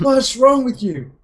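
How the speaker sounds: high, drawn-out indignant question; retold pained protest. To the friend who kicked his shin, indignant.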